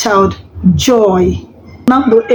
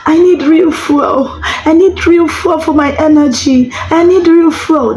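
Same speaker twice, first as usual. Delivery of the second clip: much higher, playful whiny tummy; cartoon tummy begging for fuel; silly tummy voice; 7 semitones higher than usual. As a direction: parent doing a tummy voice so the child laughs. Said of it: "Your tummy is going to say".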